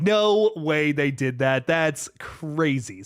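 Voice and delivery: slow, stretched-out mock disbelief; retold disbelief. Recalling a theater reaction to chat, slow stunned disbelief. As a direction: drag it out like you can't believe it. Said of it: "I was just like".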